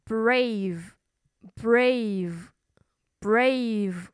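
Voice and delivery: brave, brave, brave whispered very slowly; 轻声慢读 brave; whispered word drill. Shown as a demonstration. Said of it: "勇敢的英文叫".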